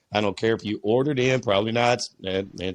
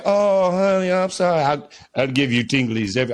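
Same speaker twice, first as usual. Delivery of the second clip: mock apologetic partner; 4 dB louder than usual. Partner promising tinglies, mock apologetic sweet-talk. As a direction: placate your honey with a hammed-up apology. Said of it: "I'm not even gonna try to do an accent".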